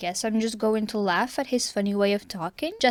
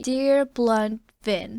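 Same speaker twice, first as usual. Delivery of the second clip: quoting Ellen; much slower than usual. Retold or imitated. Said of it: "as Ellen would say".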